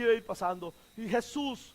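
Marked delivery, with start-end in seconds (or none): 1.1-1.7 quiet, restrained call; soft eloquent call. Retold or imitated. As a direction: call the name softly. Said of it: "seguramente con elocuencia".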